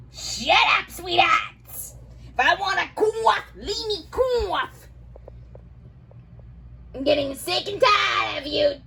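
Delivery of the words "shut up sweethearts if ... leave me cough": high-pitched cranky scolding of the daughters. Real, not acted.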